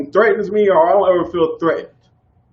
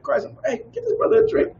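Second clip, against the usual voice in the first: cheerful order; 5 dB quieter than usual. Retold or imitated. Buying a stranger a drink.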